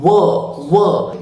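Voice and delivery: "w" as a wuh from rounded lips; rounded W sound. Shown as a demonstration. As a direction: circle the lips and release "w". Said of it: "W makes the sound of".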